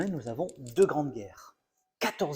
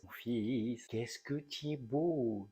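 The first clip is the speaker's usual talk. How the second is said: mother's doting; 6 dB quieter, slower than usual. Retold or imitated. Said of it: "ma mère me répétait sans cesse".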